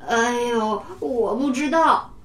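slow, groaning answer; moaning weakly. Acted. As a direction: whimper it out with a sore belly. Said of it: "哼哼唧唧地说".

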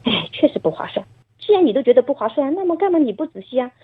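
light, singsong scolding with a trailing 哦; half-joking mother nudging her son; playful teasing tone. Retold or imitated. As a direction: tease the child gently, no real blame. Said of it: "这种，这种语气跟他讲嘛".

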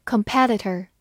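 Competitor with stress on PET; stress on second syllable. Shown as a demonstration. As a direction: say Competitor as com-PET-itor. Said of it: "重音放在了第二个音上".

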